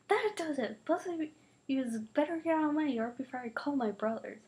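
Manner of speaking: put-on high, heated threat from a fed-up girl; angry threat. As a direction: snap at them to get out of the yard.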